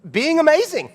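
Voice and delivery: amazing lifted high and sung out; high sing-song amazing. Retold or imitated. Dad praising his girls, high and sing-song.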